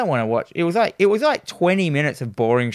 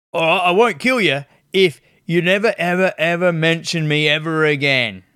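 lightly voiced monster threat; a hint of a bargaining gargoyle; 2 semitones higher than usual. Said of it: "talks to him and goes like".

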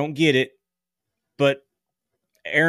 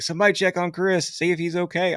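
higher-pitched imitation of worried friends; mock concern; 6 semitones higher than usual. Retelling friends' Facebook posts about him, higher mock-worried voice. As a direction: mimic anxious online posts, pitched up.

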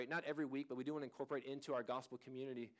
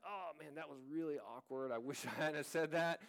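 laughing at himself. Retold or imitated. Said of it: "I'll say something that's like".

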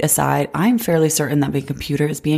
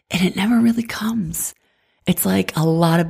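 whispered letdown, pitched up; disappointed whisper; 4 semitones higher than usual. Real, not acted. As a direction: breathe it out, let down. Letdown about the show.

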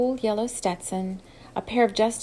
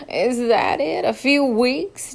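relieved laughter; 4 semitones higher, 5 dB louder, slower than usual. A narrator's reading. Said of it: "laughed out loud with relief".

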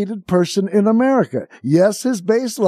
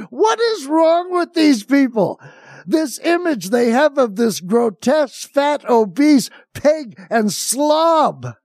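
escalating comedy rant; 5 semitones higher than usual. Real, not acted. Ranting at Trump fan image.

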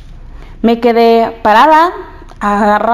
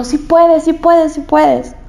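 reassuring teacher; 4 semitones higher, slower than usual. Retold or imitated. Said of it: "Lo que hizo la miss fue, me abrazó".

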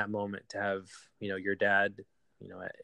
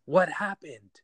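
calling out, rising louder, a frightened shout; yelled in panic; 5 semitones higher, 3 dB louder, slower than usual. Retold or imitated. Son arriving home to police, shouting to mom: panicked yell. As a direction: shout for answers, getting higher and louder. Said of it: "I just yelled".

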